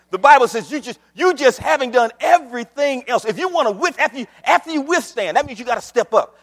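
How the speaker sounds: energetic, rapid preacher delivery; driving preaching. Acted. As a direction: press the point urgently from the pulpit. Preaching at full force.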